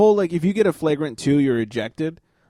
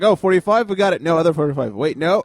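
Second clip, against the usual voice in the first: flustered referee; 3 semitones higher, faster than usual. Retold or imitated. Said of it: "sounds like an auctioneer".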